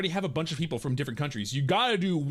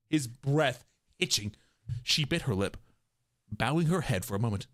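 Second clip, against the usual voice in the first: story narration; 4 semitones lower than usual. A narrator's reading. Narrator describing makeup being wiped off, subdued storytelling. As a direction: let each phrase settle downward.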